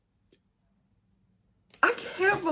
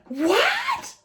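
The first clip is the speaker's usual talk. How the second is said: very high, rising disbelief; a high-pitched, astonished question; real shock. Real, not acted. Shocked on opening the box.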